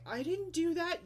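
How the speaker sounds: high, loud protesting whine; whiny kid denial. Retold or imitated. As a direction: mimic the child denying. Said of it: "absolute denial".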